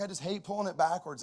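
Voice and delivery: high mock-tearful complaint; imitating tearful son. Son complains to dad about the sled, imitated tearful voice. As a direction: imitate a crying kid protesting. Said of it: "just a full-blown sob".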